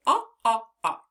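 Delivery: short O "Ah" modelled aloud; short o sound. Shown as a demonstration. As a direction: sound out "Ah" for the class. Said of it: "Let's sign it and say".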